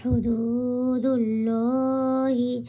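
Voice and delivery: হুদুদুল্লাহি with a rounded, heavy লা; হুদুদুল্লাহি, heavy rounded lam, slow recitation; full heavy Allah. Shown as a demonstration. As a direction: draw out হুদুদুল্লাহি slowly, lips rounded on লা. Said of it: "এটাও পুর করে পড়তে হবে".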